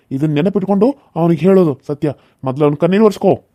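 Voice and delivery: loud menacing warning; loud threats. Acted. Villain threatens to kill her father. (ಜೋರಾದ ಬೆದರಿಕೆ)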